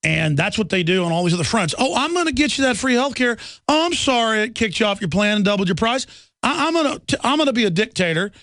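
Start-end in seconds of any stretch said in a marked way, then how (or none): 1.8-8.3 high, hammed-up sing-song of a smug politician; mock him as a glib promiser, pitched up; mocking promises. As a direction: parody president promising health care, high and smug. Mocking Obama's empty promises.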